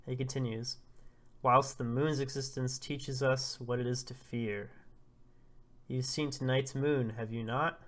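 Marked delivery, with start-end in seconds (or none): 1.4-7.8 lightly acted portentous elder; solemn old prophet. Elder questioning Dada about tonight's moon, mildly ominous oration. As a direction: speak formally, with weight, as a warning.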